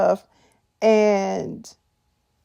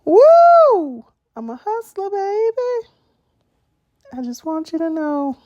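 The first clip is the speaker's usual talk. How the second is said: hustler brag; 9 semitones higher than usual. Retold or imitated. Mocking Ernesto bragging to Tasha, high hyped hustler voice. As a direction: hype it up like a hustler showing off.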